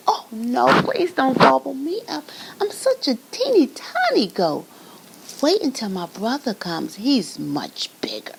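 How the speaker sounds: high, frightened little goat voice; pleading tiny goat. Acted. Tiny goat begging the troll, high and pleading.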